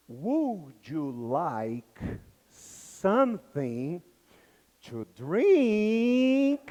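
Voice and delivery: very slow, drawn-out, far-off English offer; a flight attendant asks her passenger, stretched out slow; flight attendant's question. Retold or imitated. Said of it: "Ele ouviu".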